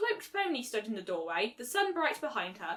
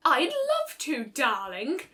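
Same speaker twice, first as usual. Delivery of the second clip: gushing; 4 semitones higher, 4 dB louder, much slower than usual. Acted. Rarity's gushing voice.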